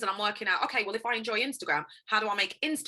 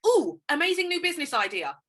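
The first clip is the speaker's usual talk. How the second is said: delighted idea; 9 semitones higher than usual. Retold or imitated. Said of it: "it'll be like".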